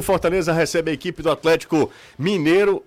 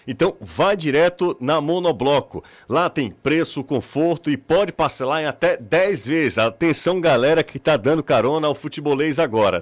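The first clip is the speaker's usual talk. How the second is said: radio ad read. Acted.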